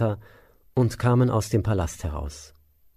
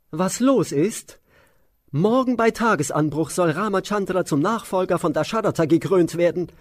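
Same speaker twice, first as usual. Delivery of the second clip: Mantara's shrill voice; 9 semitones higher than usual. Acted. Maid announcing the crowning to the queen, high and shrill. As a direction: sneer the question back up high. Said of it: "Mantara antwortete".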